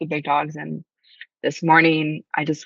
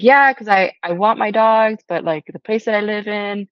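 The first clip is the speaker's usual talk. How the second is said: imitating the stranger; 4 semitones higher, 3 dB louder than usual. Quoting stranger's excited question.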